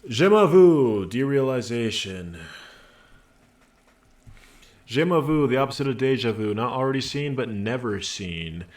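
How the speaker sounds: loud opening, settling as it goes; dramatic game narration. Acted. Game narrator explains a feeling of derealization, dramatic read. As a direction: announce the strange term, then read it out. Reads a game's inner-voice text aloud.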